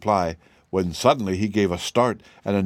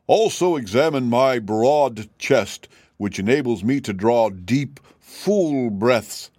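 slow, puffed-up boasting; proud; 3 semitones higher, 3 dB louder, slower than usual. Acted. Cab horse boasting to the sawhorse, slow and proud. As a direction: show off your chest slowly. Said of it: "said Jim proudly".

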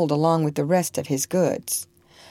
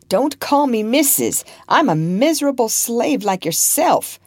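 bitterly; 7 semitones higher, 4 dB louder than usual. Acted. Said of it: "she said bitterly".

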